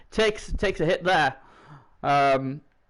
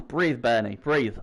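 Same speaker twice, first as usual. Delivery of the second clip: exhaled self-reminder, settling lower; self-calming; 7 semitones lower, slower than usual. Real, not acted. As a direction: sigh out, then drop low. Calming himself after an outburst.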